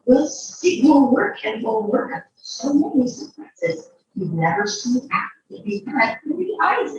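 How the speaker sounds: lively sing-song storybook read; playful circus-barker storytelling; reading to a child. A narrator's reading. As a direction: read the rhymes with showman flair. Reads ringmaster's boastful speech.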